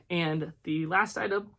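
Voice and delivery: talking through hiccups; suppressing hiccups. Real, not acted. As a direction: hold back a hiccup mid-phrase. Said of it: "sorry, I've got the hiccups".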